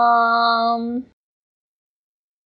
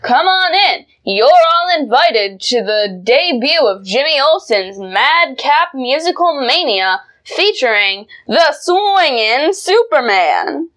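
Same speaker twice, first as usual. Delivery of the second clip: ad read; 2 semitones higher than usual. Acted. Reads comic ad copy.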